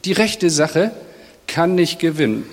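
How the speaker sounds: hushed helpless lament; quiet resigned prayer. Acted. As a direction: let it fall, like a tired prayer.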